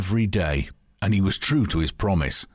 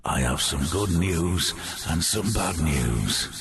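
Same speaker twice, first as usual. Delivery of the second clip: disembodied voice; 2 semitones lower than usual. Acted. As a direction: speak like a distant ghost. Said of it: "said Joe's disembodied voice".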